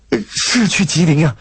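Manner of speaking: high, eager country woman; excited confirming. A narrator's reading. Country woman recognising her ticket, excited confirming. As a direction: confirm it in delighted bursts.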